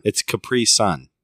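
slow "Capri Sun", "pri" stressed and "Sun" separate; stress on PRE. Shown as a demonstration. Co-host correcting a mispronounced juice name, stressed and slow. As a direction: spell out "Capri Sun" as two deliberate words. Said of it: "I put a big emphasis on the pre".

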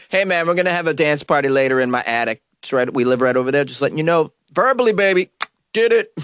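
lightly acted breezy heads-up, rising into a cheeky finish; casual heads-up to a cop. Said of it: "You can just tell the cop".

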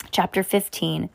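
plain reading voice

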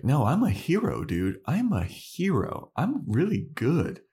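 lightly voiced boasting vampire; mock boastful Spike. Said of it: "Spike is like".

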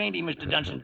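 ordinary talk

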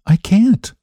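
high, gentle refusal; light, high and mild; sweet refusal. Acted. Sweet refusal to husband at door.

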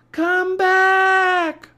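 very high, loud long yell; shouted. A narrator's reading. Annie shouting after Jack, urgent yell. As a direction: scream after him to return. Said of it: "Annie shouted".

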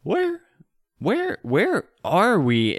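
slow, lost, dreamy elf voice; a dazed elf just waking from a trance. Acted. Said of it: "And he says".

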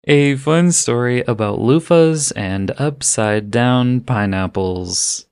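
words drawn out to keep composure; slowly, fighting off a laugh; slow and careful. Real, not acted. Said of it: "I can't even say this without laughing".

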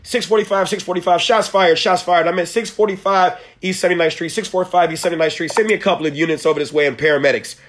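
clipped dispatch call over the radio; police radio. Shown as a demonstration. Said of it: "I'm on the police radio".

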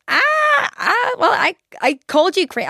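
mock ex. Ex's stammering excuse on phone.

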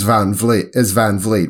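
Van Vliet with a voiced V in Vliet; family's pronunciation. Shown as a demonstration. Host giving the family's way, Vliet with a V. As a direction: say Vliet as vleet, clear V. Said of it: "the way the Van Vliet na-, family would pronounce it".

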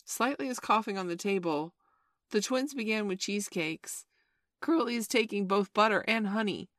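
high, loud volley of complaints; children eagerly telling on one another; tattling children. A narrator's reading. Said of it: "The hateful telling broke out again".

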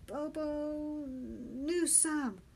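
breathless, drawn-out shout; panting. A narrator's reading. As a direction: force the name out, out of breath. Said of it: "I was panting and could hardly speak".

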